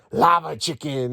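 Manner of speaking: slow, drawn-out dopey movie line; slow mocking Steve impression; mock Jack Black as Steve. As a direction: ham up each item name like a dumb hero. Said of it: "Jack Black's only dialogue".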